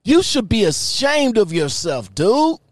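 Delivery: loud, furious confronting rant; angry scolding. Real, not acted. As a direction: call him out loudly, disgusted. Confronting the man in the chat.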